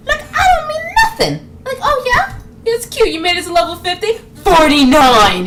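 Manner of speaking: high, mock-innocent teasing; mock taunter. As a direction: tease sweetly, then punch the last word loud. Mocking the monster who de-levels player.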